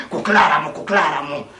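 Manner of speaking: film lover. Retold or imitated. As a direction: play the man grabbing his woman. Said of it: "Την αρπάζει στις χερούκλες του".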